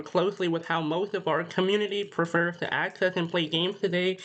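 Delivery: slightly nasal, blocked-nose sound. Real, not acted. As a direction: speak a bit nasally, just woken up. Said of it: "sorry if I sound, like, a bit nasally or a bit weird".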